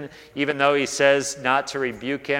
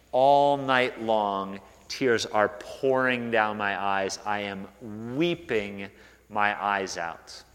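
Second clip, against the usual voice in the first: lament; 5 semitones lower, 4 dB quieter, slower than usual. Acted. Reading David's lament psalm.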